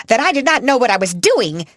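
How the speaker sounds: high, loud, outraged echo; gasping disbelief. Acted. Headmistress echoing Sarah, high and aghast. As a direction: gasp it back in disbelief. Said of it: "Miss Minchin fairly gasped".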